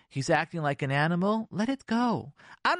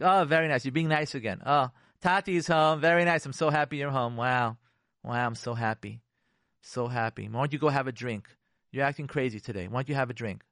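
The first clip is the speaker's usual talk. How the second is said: sarcastic; 2 semitones lower than usual. Acted. Wife greeting husband home, sarcastic. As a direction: feign delight with a sarcastic edge. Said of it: "They're sarcastic".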